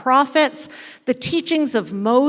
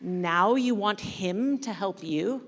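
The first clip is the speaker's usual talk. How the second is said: serious rebuke; 3 semitones lower, 6 dB quieter than usual. Acted. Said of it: "with a most serious expression and says".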